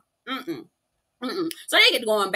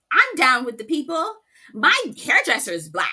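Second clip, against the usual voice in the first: mock white lady; 2 semitones higher than usual. Mocking Bronwyn's type.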